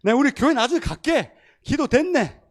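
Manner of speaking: put-on loud, high drunken exclamation; imitating a drunk man. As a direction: shout it like a tipsy man amazed at the prayer. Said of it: "이런 거예요".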